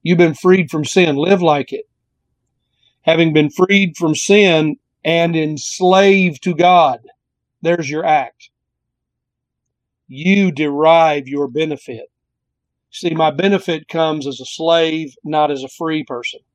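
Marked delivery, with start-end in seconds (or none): 3.0-7.0 slow, deliberate verse reading. Shown as a demonstration. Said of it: "I'll read it slowly". 10.1-12.1 slow, deliberate reading of the verse. Shown as a demonstration. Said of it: "I'll read it slowly".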